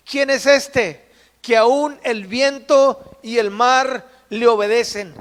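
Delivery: slow, awed and stretched out; awed wonder. Acted. Astonished disciples asking who Jesus is, slow and awed. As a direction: let the wonder fill each word slowly.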